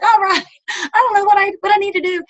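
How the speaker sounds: unsure newbie. Retold or imitated. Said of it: "I'm like".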